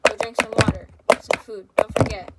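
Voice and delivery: loud, hammed-up pep talk; mock comforting tiktok. Imitating comforting TikToks to viewers, a loud hammed-up pep talk. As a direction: shout the self-care reminders like a cheerful coach.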